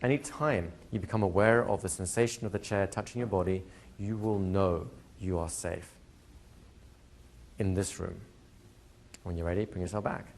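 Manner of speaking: hypnotic induction. Shown as a demonstration. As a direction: guide the class into trance gently. Continues and ends the trance.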